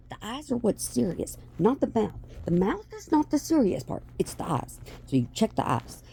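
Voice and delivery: usual speaking voice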